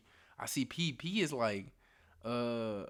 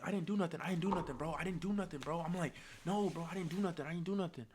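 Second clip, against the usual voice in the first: higher-pitched, insistent retold pleading; defensive protest; 5 semitones higher, faster than usual. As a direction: rattle out repeated denials of blame. Acts out pleading innocence to accusers.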